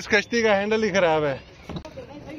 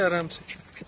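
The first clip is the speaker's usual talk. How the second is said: softer, hushed "आराम से", said gently and calmly; gentle and soft; 2 semitones lower, 8 dB quieter, much slower than usual. Real, not acted. Father helping his son off the ride, softly reassuring.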